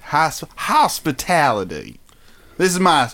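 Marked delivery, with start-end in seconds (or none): 0.1-2.0 light imitation of a Southern accent. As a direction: say it as a mock Southerner. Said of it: "that's my southern accent".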